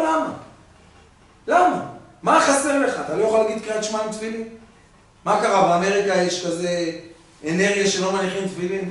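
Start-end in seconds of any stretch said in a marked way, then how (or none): 0.0-4.5 scolding father. Retold or imitated.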